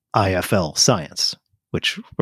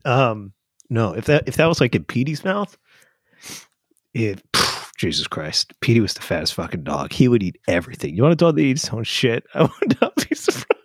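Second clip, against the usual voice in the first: trying not to laugh; 4 semitones higher than usual. Real, not acted. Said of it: "I'm losing it here".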